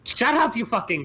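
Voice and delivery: angry shout. Pretend. Yelling at the bugs.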